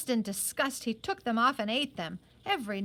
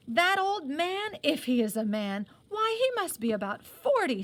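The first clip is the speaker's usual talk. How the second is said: hot indignation; 6 semitones higher, 4 dB louder than usual. A narrator's reading. Johnny scorns Cilla's older suitor, indignant and high. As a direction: spit out the insult about the old suitor. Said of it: "cried Johnny hotly".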